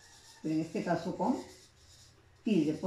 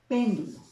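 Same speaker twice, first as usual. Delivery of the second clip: "péndulo" with PÉN punched higher and louder; stress on first syllable; 4 semitones higher, 5 dB louder than usual. Shown as a demonstration. Teacher showing students an antepenultimate stress, "péndulo" stressed on PÉN. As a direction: hit PÉN in "péndulo", let the rest fall. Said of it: "tiene la sílaba tónica o de mayor intensidad".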